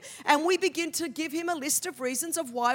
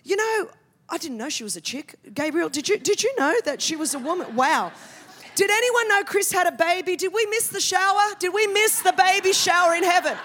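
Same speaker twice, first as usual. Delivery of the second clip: God voiced, surprised; 3 semitones higher, 4 dB louder than usual. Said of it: "I could imagine God's in heaven going".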